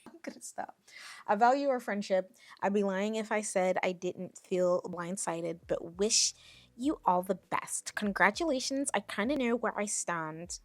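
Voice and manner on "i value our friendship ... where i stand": lightly voiced upset ex-friend; mildly mocking ex-friend voice; mock ex-friend, accent dropped. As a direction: read her text without the Australian accent. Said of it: "I can't do Australian. I'm sorry. I'm gonna stop".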